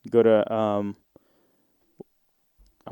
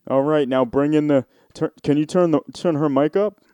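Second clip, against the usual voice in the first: imitating TV host; 4 dB louder than usual. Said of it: "most T V friendly voice".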